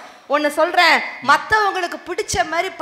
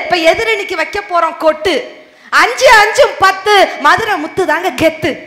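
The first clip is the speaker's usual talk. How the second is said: swaggering movie one liner; 2 semitones higher, 5 dB louder than usual. Pretend. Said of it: "ஒரு punch dialogue". (மிடுக்கான cinema punch dialogue)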